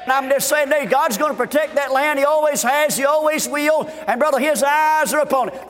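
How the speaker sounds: rhythmic revival preaching; fervent preaching. Real, not acted. Preacher to congregation on God protecting the land, fervent preaching. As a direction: drive the refrain home like a preacher. Preacher drives home repeated refrain.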